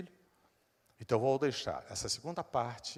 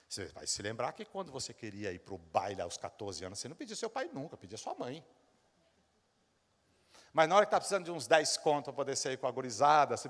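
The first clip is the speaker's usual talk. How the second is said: usual speaking voice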